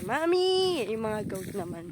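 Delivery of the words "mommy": 1 lightly voiced calf. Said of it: "Sabi niya".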